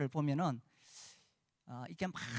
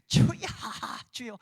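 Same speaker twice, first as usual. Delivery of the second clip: louder repeated call of 주여; mock calling out; 6 semitones higher, 4 dB louder than usual. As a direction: imitate the group's chanted 주여. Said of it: "삼창하고 하는데". (크게 외치는 "주여, 주여" 흉내)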